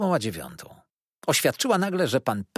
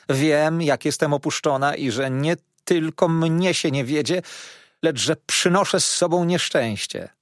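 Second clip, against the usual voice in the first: wdowa rozżalona, coraz głośniej się skarży; żałosny lament; 4 semitones higher, 4 dB louder than usual. Acted. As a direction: narzeka płaczliwie, wyżej i głośniej. Wdowa lamentuje nad swą dolą. (wdowa Gamage skarży się gospodarzowi, żałośnie i głośno)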